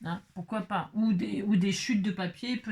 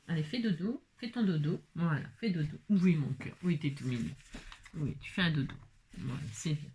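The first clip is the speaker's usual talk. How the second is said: whispering over a crib; 4 dB quieter than usual. Real, not acted. Soothing a frightened baby.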